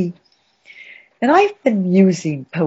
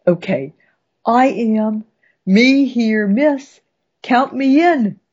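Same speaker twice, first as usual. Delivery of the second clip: eager volunteering; 5 semitones higher than usual. Acted. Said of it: "Isn't that what we're all saying".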